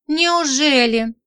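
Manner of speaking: slow, sneering "really?"; drawn-out jealous sarcasm; sarcastic anger. Acted. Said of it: "Демон от злости".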